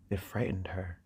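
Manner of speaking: soft whisper, almost unvoiced; quietly whispered aside; whispered narration. A narrator's reading. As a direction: drop to a hush for her fear. Narration of Dany's fear.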